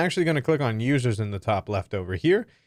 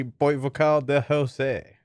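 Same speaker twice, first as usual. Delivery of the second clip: French accent; slower than usual. Shown as a demonstration. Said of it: "I don't know why I said my name in an accent".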